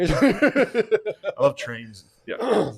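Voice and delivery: very slow, high, loud put-on voice; mock character voice. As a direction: drag it out in a hammed-up voice. Mocking voice continues.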